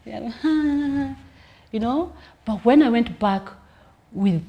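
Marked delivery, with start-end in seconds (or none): 0.4-1.1 high, thin mock audience laugh; imitated giggle. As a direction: imitate a few scattered giggles. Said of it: "maybe a few giggles".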